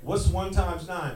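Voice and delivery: slow, drilling times tables; slow teaching voice. Shown as a demonstration. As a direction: drill it slowly like a dad teaching. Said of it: "So I'm like this".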